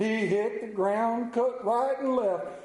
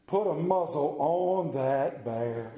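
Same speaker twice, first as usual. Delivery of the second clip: laughing; 4 semitones lower, slower than usual. Real, not acted. Punchline of a funny song.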